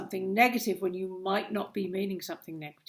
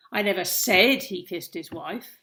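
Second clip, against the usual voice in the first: said lifted with a rising end; stress on said; 2 semitones lower, 4 dB louder than usual. Shown as a demonstration. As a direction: make said the word that carries it. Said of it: "That is a great demonstration how, of how tone of voice completely changes a sentence".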